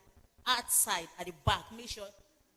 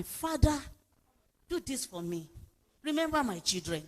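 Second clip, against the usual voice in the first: quiet prayer; 2 semitones higher, 5 dB quieter than usual. Shown as a demonstration. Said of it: "As you are crying".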